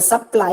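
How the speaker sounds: "supply" with weight on the ply; stress on second syllable. Shown as a demonstration. Teacher showing students word stress, second syllable of "supply" stressed. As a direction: lean on the last syllable of "supply". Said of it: "ply is given more stress".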